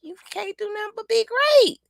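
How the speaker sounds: high, emphatic self-declaration; proud affirmation. Shown as a demonstration. Coaching viewers on affirmations, proudly emphatic. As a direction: declare it with total conviction. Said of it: "And when you say".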